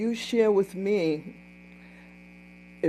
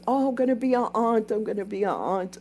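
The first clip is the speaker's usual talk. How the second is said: mock excited; 5 semitones higher, faster than usual. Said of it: "she says".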